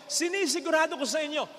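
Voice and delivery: sinisigurado shouted out to the church; shouted assurance. Real, not acted. Priest assuring the congregation, shouting. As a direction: raise the voice and insist. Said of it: "repeated line".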